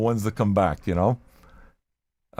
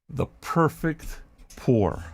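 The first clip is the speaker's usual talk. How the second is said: slow ASMR drawl; 6 dB quieter, much slower than usual. Pretend. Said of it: "I'm gonna do the M S R for you".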